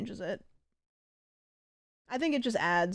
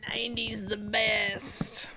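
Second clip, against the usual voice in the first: whisper; 4 dB quieter, slower than usual. Pretend. Repeating line in different voice.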